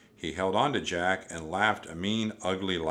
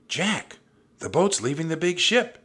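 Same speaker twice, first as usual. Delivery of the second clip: high, loud alarmed call; urgent warning; 10 semitones higher, 7 dB louder than usual. A narrator's reading. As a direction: call out the danger, pitched high. Annie warning Jack again.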